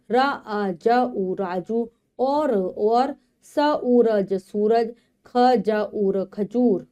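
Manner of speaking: slow syllable blending, then the sentence; phonics reading aloud. Shown as a demonstration. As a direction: sound out each letter for young learners. Sounds out words then reads sentences.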